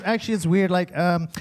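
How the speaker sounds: imitating a put-on American accent; casual mock-American girl voice; fake American accent. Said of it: "Why do you sound like that".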